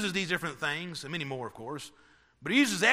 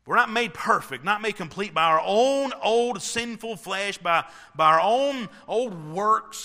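emphatic preaching; 3 semitones higher, 5 dB louder than usual. Real, not acted. Preacher driving home a point.

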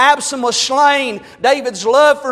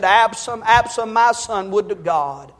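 low, soft, grieving lament for his son; a hint of David's weeping; weeping king; 5 semitones lower, 4 dB quieter than usual. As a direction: voice David mourning Absalom, hushed. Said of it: "David wept and said".

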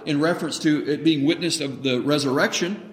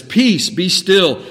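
commanding call; 2 semitones higher, 4 dB louder, much slower than usual. Acted. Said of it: "He says".

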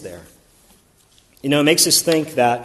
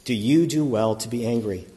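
gently; 3 semitones lower than usual. Retold or imitated. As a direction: ask it tenderly, like a patient father. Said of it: "saying to him gently".

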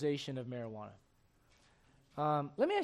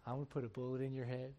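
put-on sweet baby talk; 4 semitones lower, 3 dB louder than usual. Shown as a demonstration. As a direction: coo it like sweet talk to a dog. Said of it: "start going".

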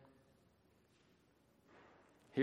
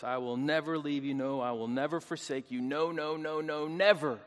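insistent string of NO capped by a louder NEVER; emphatic repetition; 4 dB louder than usual. Shown as a demonstration. Preacher stressing a promise declared five times, emphatic repetition. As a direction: build through each "no" and punch the final "never". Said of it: "This is in the emphatic".

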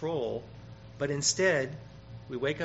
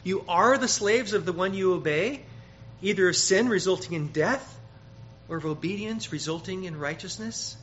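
louder, higher preaching; emphatic scripture quote; 5 semitones higher, 6 dB louder than usual. Acted. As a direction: drive the verse home. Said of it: "So he reminds".

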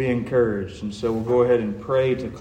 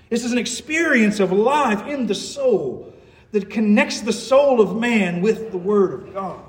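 urgent, raised evangelistic appeal; impassioned preaching; 6 semitones higher, 3 dB louder than usual. Real, not acted. Preacher appealing to the unconverted to find life, impassioned. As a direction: plead with them from the pulpit.

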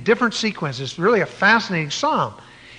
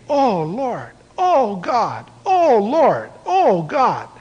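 imitating David's anguished cry; 4 semitones higher, much slower than usual. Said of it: "David was saying over and over again".

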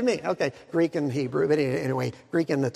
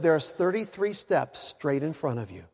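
understated, matter-of-fact guidance; calm instruction; 2 semitones lower, 4 dB quieter than usual. Acted. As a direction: answer evenly to steady a panicking man. Walenda calmly instructs panicking weatherman.

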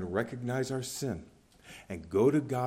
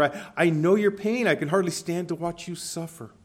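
pitying call, raised and louder; pitiful cry; 4 semitones higher, 4 dB louder than usual. Acted. God as water vendor calling the weary traveler, pitiful cry. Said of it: "this pitiful cry that says to the weary".

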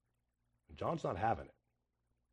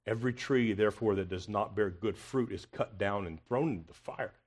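softer, weightier reading of the verse; hushed and grave; 4 semitones lower, 8 dB quieter than usual. Shown as a demonstration. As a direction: drop to a low, solemn hush for the warning. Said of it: "Do you hear how confrontational this is?".

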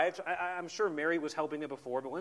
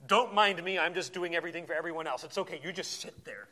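wry passive-aggressive quote. Retold or imitated. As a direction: sigh it out as a fake reassurance. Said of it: "the passive-aggressive".

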